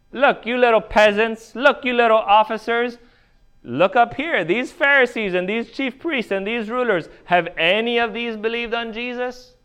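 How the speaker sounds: high, emphatic talking-down to underlings; condescending Pharisee. Acted. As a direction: pull rank on the little peasants, pitched well up. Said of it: "what we sometimes call an appeal to authority".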